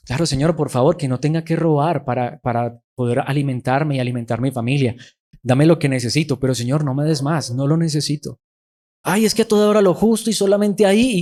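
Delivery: a lightly voiced, pleading prayer; spoken prayer. Preacher voicing Agur's prayer to the Lord, lightly pleading.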